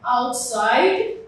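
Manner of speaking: OUTSIDE said alone with the stressed part weighted; outside set apart as a teacher's stress example; stress demo. Shown as a demonstration. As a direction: show the primary stress in outside. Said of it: "the primary stress falls".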